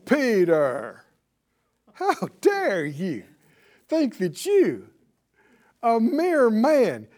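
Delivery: mock-scolding with drawn-out, stressed words; indignant rebuke. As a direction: imitate a stern, affronted put-down, slowly at first. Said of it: "Why would I say it like that?".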